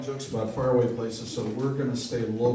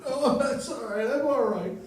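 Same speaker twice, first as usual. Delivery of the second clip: mock sob-laugh; 13 semitones higher, 5 dB louder than usual. Sobbing old man answers.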